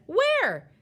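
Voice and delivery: high, loud searching shout; frantic parent calling out; exasperated call. A narrator's reading. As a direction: demand it at the top of your voice. Exasperated mother calls louder.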